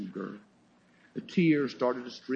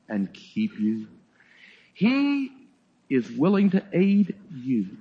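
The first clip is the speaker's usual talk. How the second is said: recited hymn. Acted. The way the hymn writer put it.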